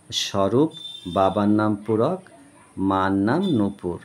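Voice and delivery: slow, carefully paced reading aloud; measured classroom read-aloud; reading to children. Acted. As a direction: read each phrase slowly so a child can follow. Reading practice sentences to children.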